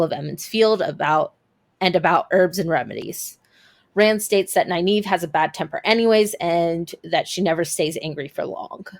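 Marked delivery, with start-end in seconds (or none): 3.9-8.9 breathless, winded narration; talking while short of breath. Real, not acted. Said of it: "catching my breath".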